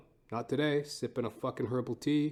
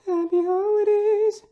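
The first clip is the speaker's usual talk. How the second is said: much higher, louder, slow squealed Happy holidays; falsetto holiday call; 9 dB louder than usual. Acted. Host squealing a greeting to listeners, slow and high.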